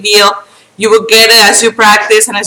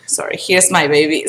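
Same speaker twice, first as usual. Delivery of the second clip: soft unvoiced aside; whisper; 5 semitones lower, 7 dB quieter than usual. Real, not acted. Aside about her baby, whisper.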